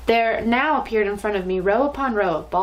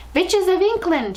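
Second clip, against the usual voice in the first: put-on much higher, slow, loud foreign-accented call; accented shout; 10 semitones higher, 4 dB louder, slower than usual. Grand High Witch calls her witches, loud high accented shout. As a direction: summon the witches in a booming accented cry. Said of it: "she yelled".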